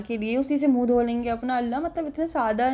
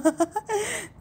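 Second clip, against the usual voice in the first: high-pitched giggle; 11 semitones higher than usual. Real, not acted. Laughs at son's stare.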